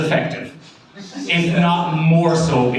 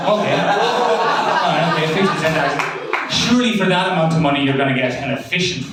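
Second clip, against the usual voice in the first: light mock French accent, a bit quick. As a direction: play a Belgian official in a light French accent. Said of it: "I was doing a French accent".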